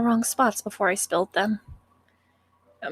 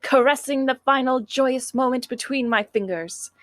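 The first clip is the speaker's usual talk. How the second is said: dramatic recitation; 2 semitones higher than usual. Acted. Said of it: "impossible for me to take you seriously when you talk like that".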